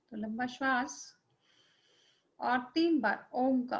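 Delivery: unhurried visualization with long pauses; guided meditation. Acted. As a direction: guide them gently into the scene, phrase by phrase.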